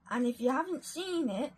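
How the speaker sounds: put-on rough go at an Australian accent; attempted Australian accent. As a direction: have a shot at sounding Australian. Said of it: "trying to do an Australian accent".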